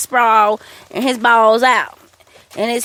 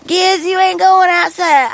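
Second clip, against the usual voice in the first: put-on mildly hollered child-like call, a bit higher; mock holler, drawn from a retelling; imitated holler; 4 semitones higher than usual. Cheyenne hollering at the dog in the house, mock holler. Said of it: "She's hollering".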